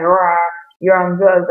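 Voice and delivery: loud mock shout of an angry dad; imitating yelling dad. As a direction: bark it out like the furious dad from the ad. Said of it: "screaming at him and yelling and he's mad".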